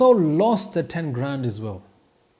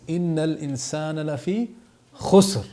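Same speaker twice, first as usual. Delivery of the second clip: Quran recitation; much faster than usual. Acted. Quoting the Quran verse in class.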